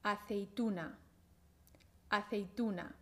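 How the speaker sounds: aceituna said slowly, each syllable clear; slow syllable demo. Shown as a demonstration. Teacher models aceituna syllable by syllable for the student. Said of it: "Vamos primero a ver cuántas sílabas tiene".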